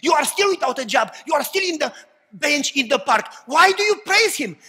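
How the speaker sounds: loud, high jeering at a believer; mocking shout. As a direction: yell it like scornful onlookers.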